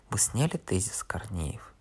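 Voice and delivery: soft, threatening whisper; menacing whisper. Acted. Thin man quietly threatening Korneev, menacing whisper. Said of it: "тихо и угрожающе спросил".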